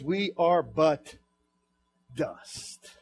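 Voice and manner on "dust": 1 whispered word. Acted. Preacher whispers the word dust.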